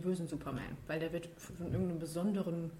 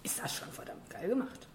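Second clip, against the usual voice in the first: whispering; 2 semitones higher, 6 dB quieter than usual. Real, not acted. Whispered aside about the film.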